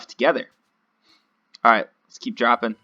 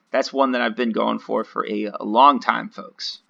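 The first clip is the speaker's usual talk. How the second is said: deadpan sarcasm with a punched "long time"; sarcastic; 3 dB louder than usual. Real, not acted. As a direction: say it as mock pride in a long-awaited win. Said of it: "I'm being sarcastic".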